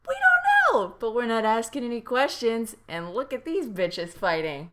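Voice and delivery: gleeful onlookers watching a fight; imitating the rookies. Imitating the lucky rookies watching the fight, giddy. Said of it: "rookies that are just like".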